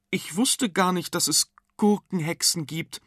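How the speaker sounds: lightly voiced amazed boy. A narrator's reading. Arthur marvelling at the witch, lightly voiced amazed boy.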